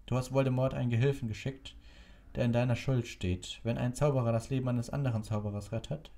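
lightly voiced wry old man; a hint of dry humour; amused old wizard. A narrator's reading. Dumbledore voiced in story.

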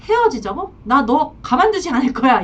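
imitating a mistress making threats; mildly heated mock threat, rising on the challenges; acted threatening. Mistress threatens the married man who wants to break up, mock-threatening. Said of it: "또 여자들이 이렇게 협박을 해요".

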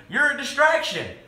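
high-pitched telling-off; scolding. A narrator's reading. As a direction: scold like an exasperated father. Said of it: "Daddy scolded".

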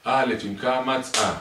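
slow, loud, high sing-song chant; drawn-out alphabet recitation; repetitive drilling. Acted. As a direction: repeat the letter lesson like a teacher to a child. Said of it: "הלאה, אתה חוזר".

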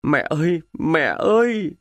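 a touch of choked crying calls; wounded man sobbing for his mother. Acted. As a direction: gasp out for mother. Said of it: "Rồi anh tức tưởi nghẹn ngào".

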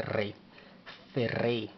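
rolled R in "rey" and "ferrey"; pronunciation demo. Shown as a demonstration. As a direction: model "rey, ferrey" with trilled R and EY glide. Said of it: "así se dice".

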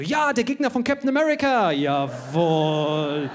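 the keen student showing off; eager kid. Retold or imitated. Boy shouting out his answer in class, eager and loud. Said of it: "Ich so".

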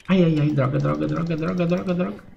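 muttered curses rising in pitch; cursing under breath. Real, not acted. Caught by game character.

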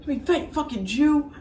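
high, indignant cartoon kid; Cartman. Cartman objects to being called fat, indignant kid voice. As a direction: protest in a high bratty cartoon voice. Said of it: "Carmen goes".

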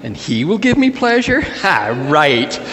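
incredulous, climbing in pitch then dry ha; mock snickering. Sarah scoffs to herself about having a baby, mock snickering. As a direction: build to disbelief, then scoff it away. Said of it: "she snickers to herself".

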